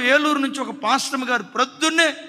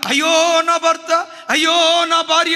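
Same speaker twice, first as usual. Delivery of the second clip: higher, louder, drawn-out mock grief cry; mock wailing lament; 6 semitones higher, 7 dB louder, slower than usual. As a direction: wail it slowly like a hammed-up mourner. Mock mourning after a death. (నాటకీయంగా మెల్లగా ఏడుపు రాగం)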